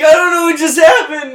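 high, loud crying wail; retold crying. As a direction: wail it out as if sobbing after fainting. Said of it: "crying like a girl".

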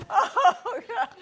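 real teary laugh, slow and loud; laughing through tears. Real, not acted. Host answering her weeping guest, laughing through tears. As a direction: laugh while admitting she is crying too. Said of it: "so am I".

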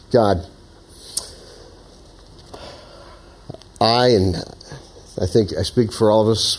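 measured prayer with long pauses; closing prayer. Real, not acted.

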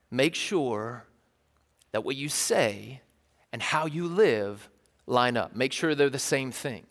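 fatherly advice. Retold or imitated. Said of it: "He'd say".

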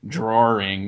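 "drawing" said with an R in the middle, like drawring; "drawing" with an R linking the vowels; added R. Shown as a demonstration. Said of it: "You put the R there".

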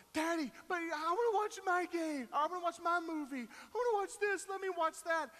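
put-on high pleading kid voice; whiny little girl. Daughter begging dad for her movie, high whine. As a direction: beg like a child who wants her way.

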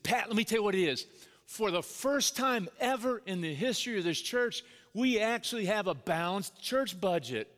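imitating an eager big announcement, pitch lifted; really excited. Board chairman announcing the church budget to dad, really excited. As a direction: proclaim it like historic news. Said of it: "he's really excited".

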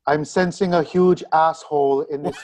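counselor's mock-solemn announcement; lightly voiced counselor, announcing a reading; Deanna Troi. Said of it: "I am Deanna Troi".

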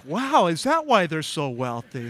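mock naive question, laughing; gullible listener. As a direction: tease the newcomer's belief. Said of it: "You're like".

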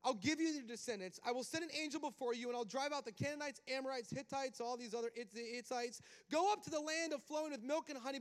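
loud, high booming God voice; a big preacher's voice of God sending Moses out; God's voice. Acted. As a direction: proclaim it as God commanding Moses. Preacher voicing God's command.

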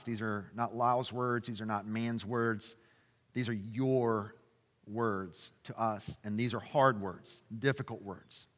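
soft, hushed pastoral prayer. Acted. Pastor praying over the congregation after the reading, softly. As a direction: pray quietly and earnestly for the church.

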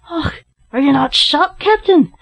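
high, astonished exclamation; exclaiming. A narrator's reading. Larry finds the fallen captain alive, exclaiming. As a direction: burst out, climbing high on the last word. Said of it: "exclaimed Larry".

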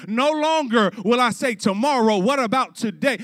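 mildly hammed-up cry of resolve; impassioned resolve. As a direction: declare it forcefully like a preacher quoting. Preacher acts out Augustine's resolve.

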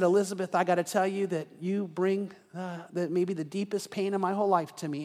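quiet, grave confession; serious. Retold or imitated. Husband-to-be turning serious with Elizabeth on a walk, quietly grave. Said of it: "all of a sudden gets serious".

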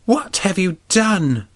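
high, slow anguished princess; crying out. Acted. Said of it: "she cried".

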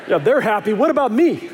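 mock-offended whine through laughter; laughing mock complaint. Dad mock-complaining that the kids are happy, laughing. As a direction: play the hurt dad, laughing.

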